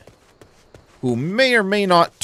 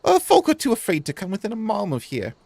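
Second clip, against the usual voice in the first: lightly raised, hopeful shopkeeper voice; voiced merchant; 5 semitones higher than usual. Gamer voicing a struggling merchant, lightly raised voice. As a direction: read it as a worried small trader.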